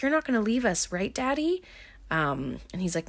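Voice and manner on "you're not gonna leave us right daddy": put-on high little-girl plea; imitated child seeking reassurance. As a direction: ask Daddy in a small, high voice. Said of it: "And then she's like".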